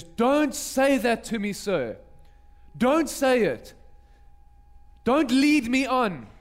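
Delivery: retold plea, stretched out slowly on the key words; pleading protest. Woman begs the prophet not to raise her hopes, pleading.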